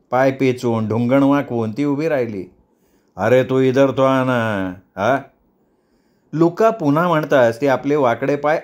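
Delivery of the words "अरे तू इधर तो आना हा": slow, drawn-out summons; coaxing boss. Acted. Boss coaxes old woman to come over.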